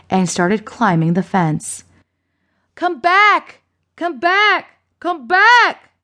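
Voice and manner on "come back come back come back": high, panicked calls; crying out. A narrator's reading. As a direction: call desperately after someone leaving. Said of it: "Lester cried".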